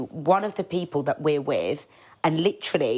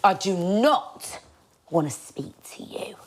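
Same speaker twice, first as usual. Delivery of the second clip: a touch of cold dismissal. Retold or imitated. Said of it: "She went".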